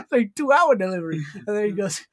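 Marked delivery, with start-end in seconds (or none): 0.3-1.2 imitated Asian accent. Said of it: "his Asian accent he puts on".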